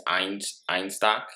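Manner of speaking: a hint of German on "Einstock", said "ine-shtock"; lightly Germanic read of "Einstock"; mock German accent. Brother naming his beer in a light mock German accent. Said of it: "how can you do a German voice".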